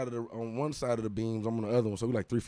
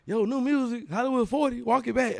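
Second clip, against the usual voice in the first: mock DJ hype announcement; DJ announcer; 10 semitones higher than usual. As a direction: announce it like a club DJ. DJ announcing the song.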